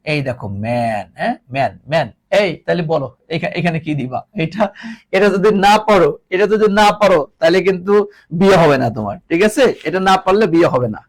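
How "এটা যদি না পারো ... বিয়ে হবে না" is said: louder playful threat about marriage; mock warning. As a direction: tease the class with a fake threat. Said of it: "teasing warning to class". (মজা করে জোরে হুমকি)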